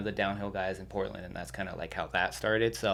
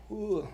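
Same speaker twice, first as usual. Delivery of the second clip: high airy whoo for a stomach drop; a quick rising whoo, like on a bump in the road; 11 semitones higher, 4 dB quieter than usual. Retold or imitated. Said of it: "like that".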